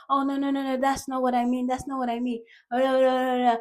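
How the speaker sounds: high, pleading mock backtrack; frantic explaining. Foreigner trying to explain to an offended listener, mock-flustered. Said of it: "trying to explain, like".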